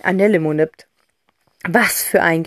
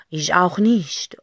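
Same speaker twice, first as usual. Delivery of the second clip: slow scarf voice; slower than usual. Acted. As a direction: answer from afar like a lazy scarf. Talking scarf calls over. (langsam, tiefer sprechender Schal)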